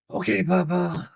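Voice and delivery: put-on slow, sweet little girl voice. Granddaughter answering grandpa, sweet childlike voice.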